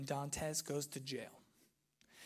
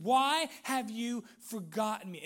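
acted accusing cry, higher and louder; retold angry outburst; 5 semitones higher, 7 dB louder than usual. Hero cursing at his lost fiancee, acted anger. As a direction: demand an answer as the betrayed hero. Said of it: "he's freaking out in anger".

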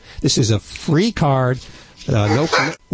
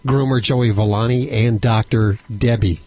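hoarse, voice giving out; strained, fading hoarse voice; losing voice; 3 semitones lower than usual. Real, not acted. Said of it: "Sorry, I'm losing my voice there".

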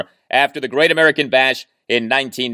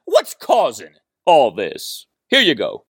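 Ric Flair; 2 semitones lower than usual. Retold or imitated. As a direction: stretch each word like a promo. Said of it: "used to say all of the time".

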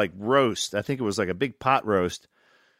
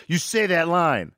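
slow, higher, mock-angry order; retold pissed-off; 5 semitones higher, slower than usual. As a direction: imitate a director insisting word by word. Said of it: "he got pissed, you know".

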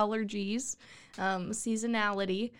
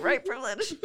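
cough over word; 3 semitones higher than usual. Pretend. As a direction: fake cough through the words.

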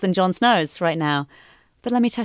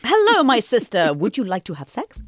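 mock incestuous brother. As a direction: play a stilted sibling come-on for laughs. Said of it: "saw the scene that you mentioned".

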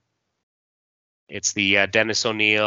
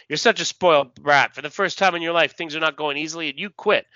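higher-pitched comic-book telling-off; acted scolding; 6 semitones higher, faster than usual. Someone confronts a man who gave up, acted scolding. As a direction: scold a spoiled quitter, dramatically.

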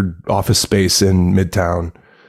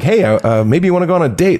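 awkward guy; 9 semitones higher, faster than usual. Retold or imitated. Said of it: "Fred Armisen is playing the guy who's like".

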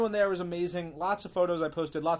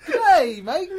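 loud, much higher hammed-up Aussie greeting; mock Aussie accent; 11 semitones higher, 11 dB louder than usual. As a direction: belt out a cartoon Australian hello. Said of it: "That's pretty much any accent".

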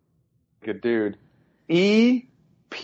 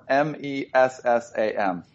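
spelling it out; 4 semitones lower than usual. Shown as a demonstration.

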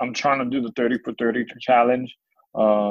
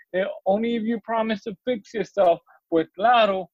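higher, animated poem performance; spoken-word dialogue; 11 semitones higher, 3 dB louder than usual. Acted. Grandfather agreeing to sing on a condition, animated recital. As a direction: act out the bargain between grandfather and grandchild. Poem figures answer each other.

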